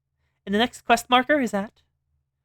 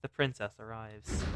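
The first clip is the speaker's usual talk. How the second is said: slow, low, grand entrance; dramatic hero entrance; 7 semitones lower, slower than usual. Acted. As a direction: announce the arrival slowly.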